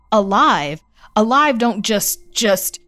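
panicked. Acted. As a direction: choke on the words in terror. Panicked boy cuts her off.

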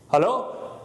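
hint of a put-on phone voice; weird voice. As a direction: fake a stranger asking for the book. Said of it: "he would talk in a weird voice".

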